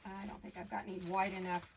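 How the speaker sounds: speaking through hiccups. Real, not acted. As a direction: hiccups breaking the words. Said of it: "I have the hiccups".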